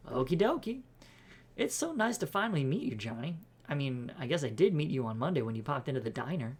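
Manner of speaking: bubbly housekeeper voice; cheery eager cleaner. Acted. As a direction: introduce yourself brightly and eagerly, pitch lifted.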